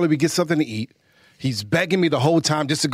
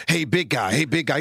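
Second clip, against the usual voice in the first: put-on a small kid trying to sound big; toddler deep voice; 3 semitones lower than usual. Dad imitating his son's deep greeting, a touch lower. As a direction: slightly lower mock tough-guy greeting. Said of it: "He doesn't get that deep".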